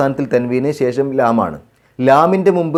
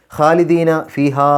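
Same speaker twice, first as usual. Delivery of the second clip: slow, drawn-out chanted recitation; measured Quranic chant; 3 semitones higher, much slower than usual. Shown as a demonstration. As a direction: recite it slowly with tajweed.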